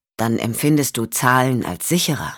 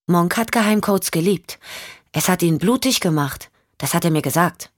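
put-on a slightly higher little-girl voice; lightly voiced young girl; 4 semitones higher than usual. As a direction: lightly play a child talking about her father. (leicht angedeutete Mädchenstimme)

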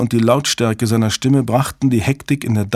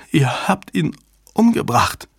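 higher, halting, stunned voice; stammering shock; 6 semitones higher than usual. A narrator's reading. Susan sees her lover dead on screen, stammering. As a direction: falter out the accusation in shock. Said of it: "stammelte sie".

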